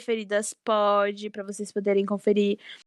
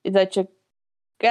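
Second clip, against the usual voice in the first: "It's Not Okay" said very slowly, each word drawn apart; slow it right down so it lands; slow, spelled-out title; 4 semitones lower, much slower than usual. Shown as a demonstration. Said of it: "Ah, você entendeu?". ("It's Not Okay" bem devagar, palavra por palavra)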